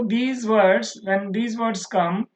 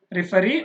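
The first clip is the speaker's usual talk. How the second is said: referee with weight on ree; last-syllable stress. Shown as a demonstration. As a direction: lean on the end of referee. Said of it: "last one". (referee చివరి ree పై ఒత్తిడి)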